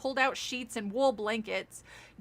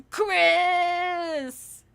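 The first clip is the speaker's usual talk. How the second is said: laughing shout; 5 semitones higher, 5 dB louder than usual. Real, not acted. Crying out game name.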